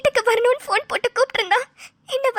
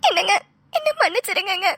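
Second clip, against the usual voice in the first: tearful apology. Acted. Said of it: "எதுக்கும்மா அழற?".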